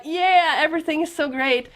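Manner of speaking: high, loud mock cheer; naive elation. Recalling being in love with L A, mock-elated cheer. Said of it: "dancing around and like".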